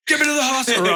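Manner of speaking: high, strained panicky voice; panicked plea. Retold or imitated. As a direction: squeak it out like a scared patient. Panicked patient quotes himself.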